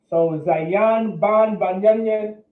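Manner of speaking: drawn-out syllables, Ban Yamyan said slowly; slow spelled-out name. Shown as a demonstration. Teacher to class, slowly sounding out the tribe name. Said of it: "Most High in Christ".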